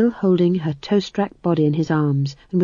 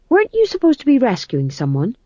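high fretful fool voice; anxious fussing servant; bumbling fool; 7 semitones higher, 3 dB louder than usual. Acted. The fool speaks.

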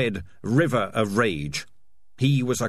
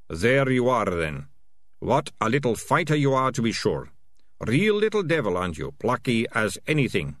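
fond cooing to a rat. Acted. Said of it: "in a voice that suggested".

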